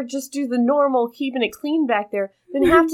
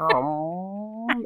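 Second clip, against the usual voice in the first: imitated robot noise; 3 semitones lower, 7 dB quieter than usual. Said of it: "you'll just hear, like, a little".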